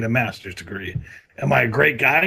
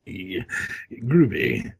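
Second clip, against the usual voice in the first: lower smooth voice; 9 semitones lower, 3 dB quieter than usual. Retold or imitated. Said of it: "and I said".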